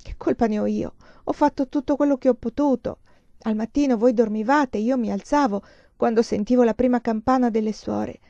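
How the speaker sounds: plaintive, upset protest; acted tearful justification; distressed self-defence. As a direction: plead that you did everything you could. Crying student protests her effort.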